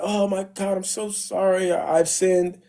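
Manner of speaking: lightly whiny, hammed-up repentance; mock tearful remorse. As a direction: imitate a sorry king begging forgiveness. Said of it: "he's crying".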